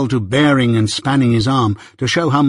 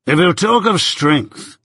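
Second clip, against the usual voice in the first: slow, higher-pitched emphatic challenge; Jaggers, commanding; 6 semitones higher, slower than usual. A narrator's reading. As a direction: draw it out like a man taking charge. Jaggers's figure voice.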